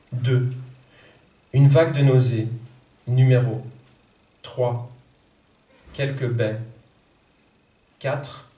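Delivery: measured French poetry reading. Acted. Translator reads her poem to the audience, measured poetry reading. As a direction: read each line with weight.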